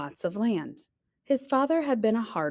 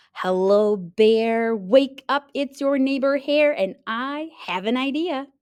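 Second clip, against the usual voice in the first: Hare, higher and louder, coaxing; eager hare; 4 semitones higher, 4 dB louder than usual. Acted. Hare waking sleeping neighbor bear, eager call. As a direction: call up brightly to wake him.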